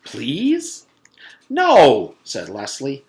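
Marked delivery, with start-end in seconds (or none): 0.0-0.9 high pleading voice; boy begging a classmate, high and wheedling. Acted. Paul pleading. 1.5-2.1 loud, high flat refusal; girl refusing firmly, loud and high. Acted.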